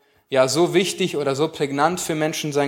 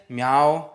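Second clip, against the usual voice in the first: cat meow imitation; 2 semitones lower than usual. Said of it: "kann Geräusche nachmachen".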